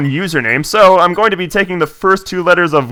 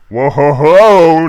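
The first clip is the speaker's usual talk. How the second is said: mock bully taunt; 3 dB louder, much slower than usual. Bullies taunting scene.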